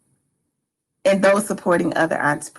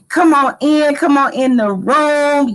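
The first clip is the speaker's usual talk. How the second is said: excited welcome; 7 semitones higher, 5 dB louder than usual. Acted. Welcoming host call.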